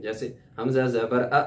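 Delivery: ا chopped off with a jolt; wrong jerked hamza. Shown as a demonstration. Teacher demonstrating the jerk error to students. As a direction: clip ا abruptly, the mistake. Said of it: "جھٹکا دے دیتے ہیں".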